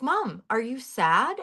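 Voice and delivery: imitating young daughter. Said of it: "she's only three. And she's like".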